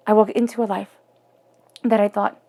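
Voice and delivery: holding back tears; choked up. Real, not acted. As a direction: voice tight with emotion. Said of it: "sorry, I'm getting choked up here".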